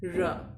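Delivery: र with the tongue curled back, English style. Shown as a demonstration. Teacher demonstrating to students, English R. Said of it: "रोल करके".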